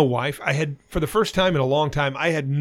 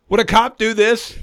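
laughing retort; 7 semitones higher, 5 dB louder than usual. Retold or imitated. Retelling pointing at masseuse.

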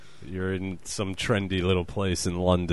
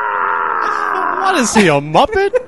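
mocking disbelief; 10 semitones higher, 8 dB louder, slower than usual. Real, not acted. Mocking a moaning man.

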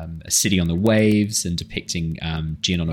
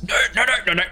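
high, fussing no no no; a hint of a fretful creature head; a lightly voiced worried monster head; much faster than usual. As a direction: hold back the other head, pitched up. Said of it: "The head on the left goes".

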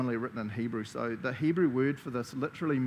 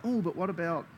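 eager; 6 semitones higher, faster than usual. Retold or imitated. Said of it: "I'm like".

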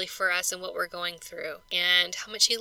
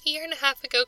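higher, tearful voice holding back crying; teary; 6 semitones higher, much faster than usual. Real, not acted. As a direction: voice catching with tears. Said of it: "sorry that I'm getting teary".

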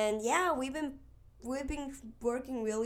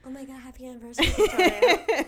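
excited; 4 semitones higher, 10 dB louder, faster than usual. Real, not acted. Excited congratulation.

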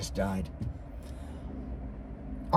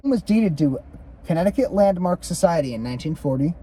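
measured read-aloud of a ghost account; story narration; 5 semitones higher, 4 dB louder than usual. A narrator's reading. Co-host reads the Griffith haunting aloud, story narration. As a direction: read it out as a haunted-house history.

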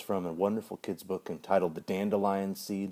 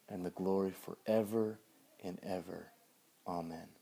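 prayer. Acted. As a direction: pray it aloud to the congregation. Leads the Lord's Prayer.

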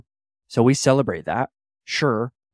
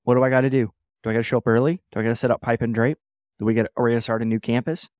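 eager volunteer; 4 dB louder, faster than usual. Retold or imitated. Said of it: "Other people go".

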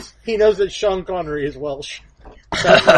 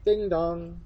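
sheep ringing doorbell; 9 dB quieter than usual. Acted. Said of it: "I'm gonna be a Welsh sheep on a rampage".

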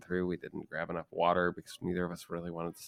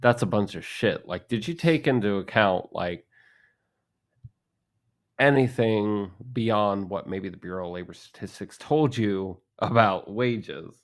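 arguing; 6 dB louder than usual. Retold or imitated. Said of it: "argue with somebody and say".

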